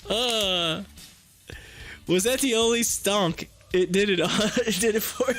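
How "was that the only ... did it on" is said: usual speaking voice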